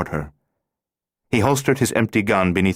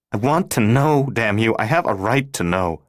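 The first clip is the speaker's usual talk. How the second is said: furious demand; 4 semitones higher than usual. Acted. Laura furious, demanding answers.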